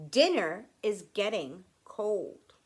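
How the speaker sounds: firm grandfather laying down the rule; serious. Acted. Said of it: "He's serious".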